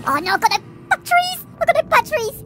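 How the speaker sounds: high, alarmed cry; panicked outburst. Real, not acted. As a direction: blurt it out in dismay. Realises camera batteries gone.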